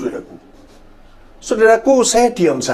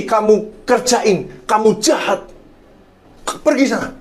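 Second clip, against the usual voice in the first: retold angry rebuke, raised pitch; kemarahan yang ditirukan; 5 semitones higher than usual. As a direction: recount telling off a bully, indignant but controlled. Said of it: "Saya marah, saya, mata saya melotot". (menirukan teguran marah dengan nada tinggi)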